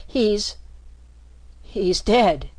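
shaky, loud and broken. Acted. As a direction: say it with a shaking voice. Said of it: "the rat answered shakily".

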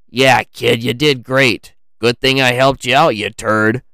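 teasing uncle, punched out; a hint of a ribbing old uncle; lightly voiced gruff uncle. A narrator's reading. Frank congratulates his nephew, lightly teasing.

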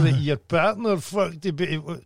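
mock questioning. Acting out an interviewer questioning James.

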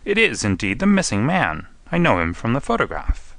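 astonished exclamation. Acted. Inspector recognising the man from a photograph, astonished. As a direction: exclaim it with mild amazement. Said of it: "cried the inspector".

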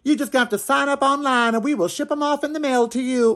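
mocking Biden. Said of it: "As Biden's saying".

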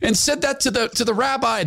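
lightly voiced, high excited chatter; excited followers. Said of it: "they're excited".

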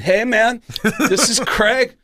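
high-pitched put-on drummer's voice; a drummer. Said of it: "when he introduced me to his band".

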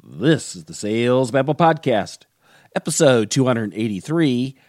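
punchy episode title announcement with swinging pitch; podcast announcer. Acted. Host introduces the episode to listeners, podcast announcer. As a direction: announce the show in measured, separate phrases.

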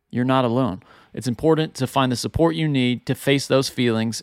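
recorded-sounding ad read; advertentie. Acted. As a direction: read the sponsor spot, measured and clear.

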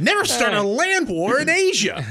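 high, loud, comic villain quote; Vizzini impression. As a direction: proclaim it like a smug movie villain. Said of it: "That's actually really good".

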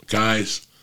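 ordinary talk

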